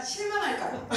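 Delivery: 실망할까 said high and bright, driving the point home; emphatic punchline. Real, not acted. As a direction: land the lesson high and lively.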